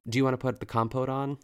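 fast, brisk and businesslike; rushed quick reply. Retold or imitated. Amanda cuts off Ina's joke, quick businesslike reply. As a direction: fire it off right away without a pause. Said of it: "replies immediately with".

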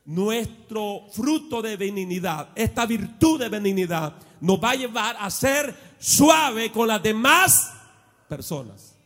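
preaching. Acted. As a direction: press the point home. Preaching rise. (predicación enfática y lenta)

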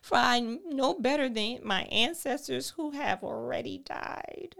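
a despairing man begging to die. Shown as a demonstration. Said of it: "Repeat that".

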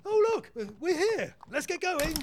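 high, loud, hurried interruption; flustered eagerness. Acted. Inspector desperate to leave the carriage, flustered and high. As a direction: burst in to change the subject.

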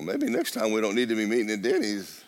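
sheepish laugh. Retold or imitated.

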